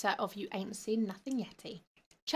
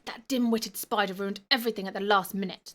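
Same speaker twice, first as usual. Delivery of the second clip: huffy. Acted. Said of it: "the boy huffled".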